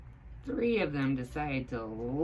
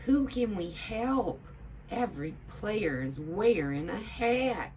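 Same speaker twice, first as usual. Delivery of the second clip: Hildy voice; 6 semitones higher, 3 dB louder than usual. A narrator's reading.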